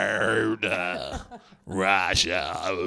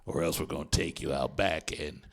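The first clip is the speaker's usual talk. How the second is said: dramatic host voice; 4 semitones lower, 3 dB quieter than usual. Acted. Game-show host.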